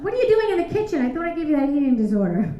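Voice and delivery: mock yelling mom. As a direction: bark at her like an outraged mom. Mom yelling at daughter, loud.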